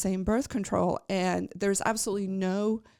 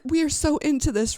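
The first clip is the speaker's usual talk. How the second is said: excited gush; 8 semitones higher, 5 dB louder than usual. Retold or imitated. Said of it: "I'm like".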